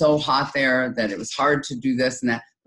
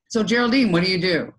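interviewer tone; 4 semitones higher than usual. Shown as a demonstration. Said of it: "that is an interview".

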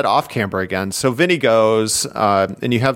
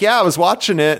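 higher, livelier retelling voice; animated rider impression; 8 semitones higher than usual. Host retelling the rider's race story, animated. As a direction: imitate the rider's animated account. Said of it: "in a very animated voice".

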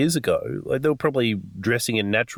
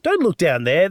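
higher, hurried brush-off; dismissive cover-up; 8 semitones higher than usual. Acted. Gravediggers brushing off another hole, dismissive. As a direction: wave it away quickly, pitched up. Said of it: "they're just like".

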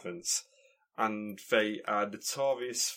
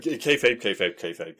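stammering catchphrase echo; stuttered mock echo; 5 dB louder than usual. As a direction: stutter it out playfully.

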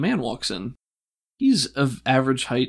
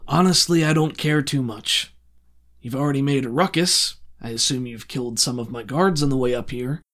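weary, louder, condescending villain; a bored crime lord toying with intruders; villain Strickland; 2 semitones higher, 5 dB louder than usual. Acted. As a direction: crime lord addressing party who broke in, louder and weary.

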